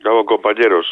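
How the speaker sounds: raspy voice from a cold; hoarse voice. Real, not acted. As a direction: voice from beyond the grave. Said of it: "vaya voz de ultratumba".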